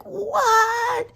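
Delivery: very high, loud retold shriek; alarmed yell. Sister replying to her frantic brother, alarmed yell.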